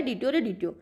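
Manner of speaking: "डिट्यो रे डिट्यो" softly, with lisped hard ट sounds; quiet, mispronounced "डिट्यो रे डिट्यो"; lisping speech. A narrator's reading. Narrator explains to listeners the boy's lisped "डिट्यो रे डिट्यो". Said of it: "वो थोड़ा तुतला कर बोलता था".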